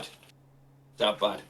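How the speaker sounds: "that bad" drawn out slowly; slow emphasis. Shown as a demonstration. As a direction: stretch every word of "It's that bad".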